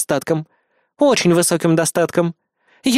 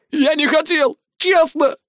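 whiny plea; 9 semitones higher, slower than usual. A narrator's reading. Caught man pleads.

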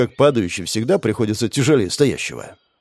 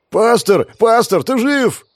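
loud, high joyful shout; happy yell; 11 semitones higher, 5 dB louder, slower than usual. Acted. The ratnik shouts to the priest, overjoyed he's alive. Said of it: "проорал ратник счастливо".

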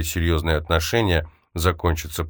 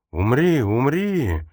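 raised, pitched-up roar; furious roar; 7 semitones higher, slower than usual. A narrator's reading. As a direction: bellow it in rage. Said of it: "яростно ревел он".

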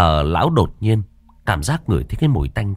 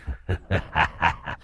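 low ghost chuckle; 3 semitones lower, 8 dB quieter than usual. Acted. Ghost laughs at master.

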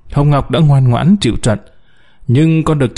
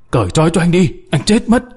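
desperate yell; 5 semitones higher, faster than usual. Acted. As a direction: pitch climbing high, pleading cry. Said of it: "gào lên". (gào lên tuyệt vọng)

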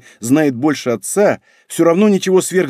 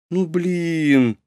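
drawn, higher-pitched disappointed moan; crestfallen; 4 semitones higher than usual. A narrator's reading. Redhead reacting to a refusal, crestfallen. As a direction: let it out dejectedly. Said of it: "поникла рыжая".

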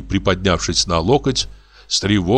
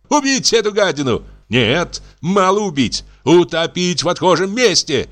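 much higher, frantic fury; raging; 11 semitones higher than usual. A narrator's reading. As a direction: rant with murderous hatred. Madman raging at the doctor. (в бешенстве)

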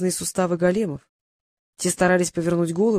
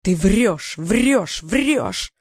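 shouting; much slower than usual. A narrator's reading. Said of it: "закричал Алхазаб".

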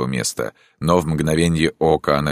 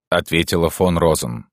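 usual speaking voice

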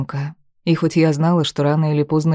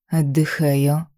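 evasive; slower than usual. Acted. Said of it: "ответила неопределённо".

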